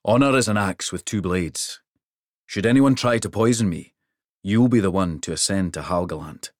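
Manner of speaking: a big king pleased with the trip; hearty king. Acted. King's voice.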